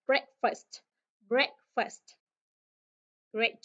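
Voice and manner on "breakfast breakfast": "Breakfast" hit hard on "Break", falling after; stress first syllable. Shown as a demonstration. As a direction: punch "Break" and let "fast" drop. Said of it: "nhấn âm đầu chúng ta sẽ đi xuống". (nhấn âm đầu "Break" rồi hạ giọng)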